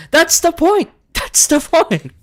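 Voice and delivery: high squeal breaking into laughter; laughing protest. Real, not acted. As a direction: insist while cracking up. Laughing comeback to chat.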